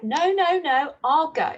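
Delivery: no no, I'll handle it myself; firm insistence. Acted. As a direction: mum insisting to her son, loud and firm. Mum insists on going herself.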